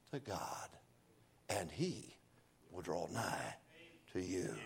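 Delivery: soft, low, slow invitation with long pauses; gentle pleading altar-call voice; hushed altar call. Acted. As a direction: drop to an intimate near-whisper to draw them in. Softened invitation preaching.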